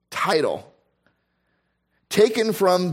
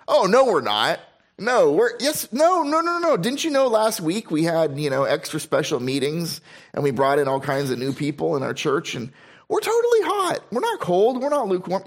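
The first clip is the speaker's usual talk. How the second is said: mock indignant protest; 3 semitones higher than usual. Acts out church arguing with Christ.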